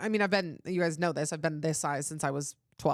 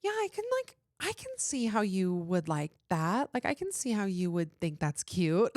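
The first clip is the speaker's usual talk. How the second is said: imitating the nieces; 2 semitones higher than usual. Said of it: "my nieces would be like".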